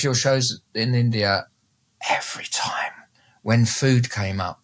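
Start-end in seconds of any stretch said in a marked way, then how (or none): 2.1-2.9 whisper. Real, not acted. Quiet aside.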